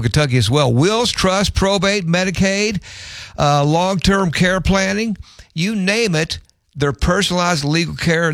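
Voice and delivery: upbeat host reading a sponsor spot; radio host's live read for a law firm. Acted. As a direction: sell it warmly, like a friendly local ad.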